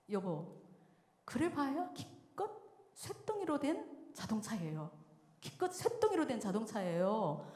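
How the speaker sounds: measured start building to firm reproach; retold stern seriousness. Wife confronts husband for hurting their son, imitated stern rebuke. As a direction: act out a wife gravely taking her husband to task. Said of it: "정색을 하고 이렇게 말했어요".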